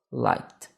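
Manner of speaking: "liked" in one syllable, silent E. Shown as a demonstration. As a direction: say "liked" with just a consonant added after the K. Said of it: "eu só acrescento a nova consoante".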